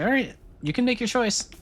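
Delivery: high, taunting villain voice; mustache twirling villain. Acted. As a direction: taunt them like a gleeful villain.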